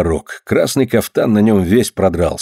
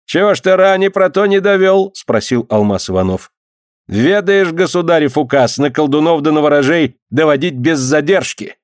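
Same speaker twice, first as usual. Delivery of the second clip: a stern official scolding, raised pitch; lightly voiced stern clerk; stern dyak; 7 semitones higher than usual. A narrator's reading. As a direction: boss them about like a tsarist clerk. Dyak presses Emelka.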